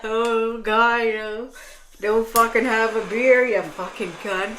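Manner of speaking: laughing angry retort. Retold or imitated. Mock retort to shopper, laughing.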